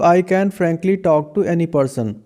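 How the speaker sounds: slow, careful model sentence for students to repeat. Shown as a demonstration. English teacher reading a model sentence slowly for students. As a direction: say each word slowly and clearly for the class. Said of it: "तो इसका मतलब".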